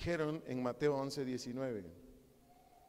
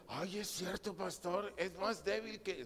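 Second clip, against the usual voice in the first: high-pitched imitation of a wife; wife agreeing; 5 semitones higher, slower than usual. Wife admits to pastor her husband is weak, acted high voice. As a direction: play a wife suddenly conceding the point. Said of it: "dice la".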